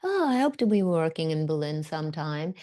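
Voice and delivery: retold swoon of delight. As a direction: gush with longing, easing off towards the end. Acting out husband's delighted reaction.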